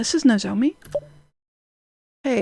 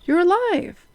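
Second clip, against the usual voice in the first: relieved exclamation; 6 semitones higher, slower than usual. Acted. Relieved cry on finding her.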